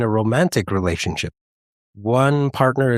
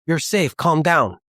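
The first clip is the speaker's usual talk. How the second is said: soothing nurse; 7 semitones higher than usual. Retold or imitated. ER nurse soothing panicking patient.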